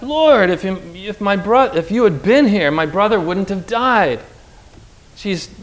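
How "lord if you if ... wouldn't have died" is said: crying out. Acted. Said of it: "weeping, she cries out".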